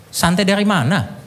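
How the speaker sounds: high, incredulous angry snap with a laugh; exasperated retort. Retold or imitated. Husband snapping at his wife in the car, exasperated high retort. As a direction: throw her words back at her, fed up. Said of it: "tiba-tiba emosi".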